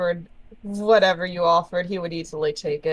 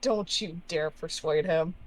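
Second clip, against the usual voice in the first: softer, controlled threat; quiet, firm objection; restrained warning; 6 dB quieter than usual. Acted. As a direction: warn them off under your breath. Player repeats warning, restrained.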